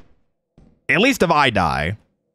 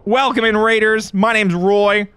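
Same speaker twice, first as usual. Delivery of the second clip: higher, upbeat streamer greeting; excited welcome; 6 semitones higher than usual. Real, not acted. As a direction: greet the raiders brightly, pitched up.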